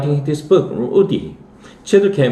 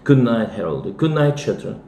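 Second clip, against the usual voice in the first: calm. Acted. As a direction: settle everyone down gently. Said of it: "and then more calmly".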